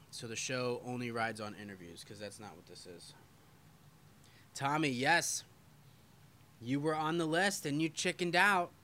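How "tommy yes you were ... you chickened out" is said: teasing. Real, not acted. Teasing a viewer by name.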